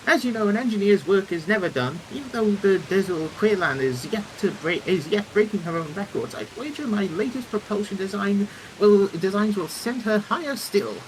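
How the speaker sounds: lofty, enthusiastic airship engineer; eager engineer character. Acted. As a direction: play a proud inventor showing off designs.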